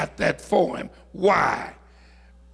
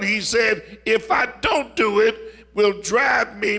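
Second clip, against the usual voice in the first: raised, higher-pitched preacher delivery; impassioned preaching; 4 semitones higher than usual. Acted. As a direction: preach it with building force. Preaches with rising force.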